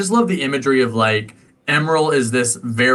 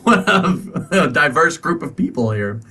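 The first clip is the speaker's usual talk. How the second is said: a hint of a wowed onlooker; Goose Babies; 2 semitones higher than usual. Goose Babies marvelling at the group, in a lightly amazed voice. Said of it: "It's Goose Babies in the back, like".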